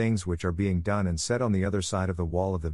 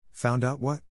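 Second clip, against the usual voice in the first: higher-pitched, rising, startled question; exclaimed surprise; 4 semitones higher than usual. A narrator's reading. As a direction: demand to know, taken aback. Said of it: "she exclaimed".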